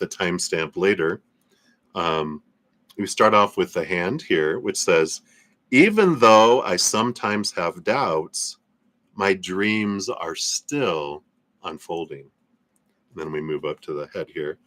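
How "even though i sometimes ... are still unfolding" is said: slow, deliberate affirmation with drawn-out words; guided affirmation. Acted. Streamer leading viewers in a tapping exercise, slow guided affirmation. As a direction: lead them through it phrase by phrase, slowly.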